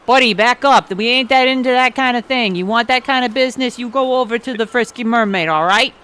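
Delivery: loud, gruff Brooklyn tough; gruff dock guard. Acted. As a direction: shoo him off the ship.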